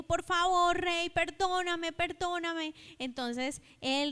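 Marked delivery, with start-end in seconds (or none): 0.0-2.7 a mild, slightly higher plea for forgiveness; lightly voiced beggar asking the king for mercy; pleading debtor. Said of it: "le rogó al rey y le dijo". (hombre que ruega al rey que lo perdone, súplica leve)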